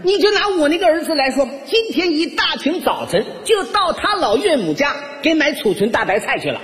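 high, singsong praise; gushing mother-in-law. Retold or imitated. Mother-in-law praises son-in-law to neighbours, high gushing voice. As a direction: proclaim it to the crowd in a high put-on voice. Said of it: "一边夸我".

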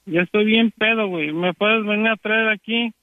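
put-on slurring like a drunk. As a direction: fake being drunk on the phone. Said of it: "lo que dijiste que estabas borracho".

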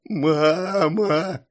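high, drawn-out tearful wail; crying childlike plea; sobbing. A narrator's reading. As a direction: sob out the call for mother. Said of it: "рыдал Илья".

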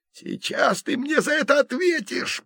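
put-on older brother threatening Jason mid-fight; hissed threat. A narrator's reading. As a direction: spit the threat at him. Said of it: "прошипел тот".

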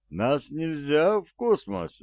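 pleading. A narrator's reading. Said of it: "взмолился Форд".

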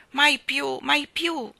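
loud, high repeated cry; cry of the heart. A narrator's reading. Children crying out never again. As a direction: call it out from the heart. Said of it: "era il grido del loro cuore".

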